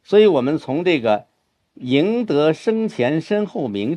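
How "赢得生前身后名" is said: slight turn in mood, drawn-out recitation; lekki zwrot nastroju. Shown as a demonstration. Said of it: "这个地方就略微有点转了".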